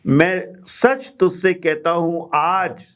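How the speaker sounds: slow phrase closing with a fall on आज; comma after आज. Shown as a demonstration. Teacher putting the comma in its right place, slow stop after आज. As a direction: keep आज with कहता हूं, then pause. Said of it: "comma को सही जगह पे".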